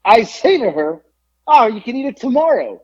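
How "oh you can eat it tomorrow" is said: much higher, airy and helpful; high breezy suggestion. Retold or imitated. Nosy customer to stranger, high breezy suggestion. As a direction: toss it off lightly, pitched way up. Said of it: "That's exactly how I said it".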